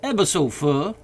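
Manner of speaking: high dialect voice calling down; Jupiter's voice. A narrator's reading. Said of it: "replied the negro".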